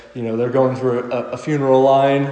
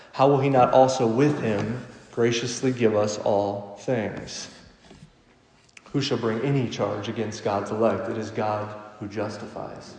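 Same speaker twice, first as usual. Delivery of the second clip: scripture reading. Acted. Pastor reading Romans eight to the congregation, measured and reverent. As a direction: read the passage with weight and reverence.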